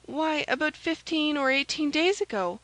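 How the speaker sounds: high maid's voice, informing; anxious maid Kitty. A narrator's reading. Maid reporting the spy's visits, anxious and high.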